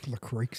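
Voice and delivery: "LaCroix" said loosely, ending in an "ay" sound; casual "LaCroix" without the "oy" ending; personal pronunciation. Shown as a demonstration. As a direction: say "LaCroix" roughly as luh-KRAY. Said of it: "I just say LaCroix".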